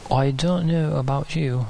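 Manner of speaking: unplanned touch of English accent; accidental English accent. Real, not acted. Preacher addressing the congregation, slipping into an English accent. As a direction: slip briefly into an English accent. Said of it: "changed into an Eng-, English accent".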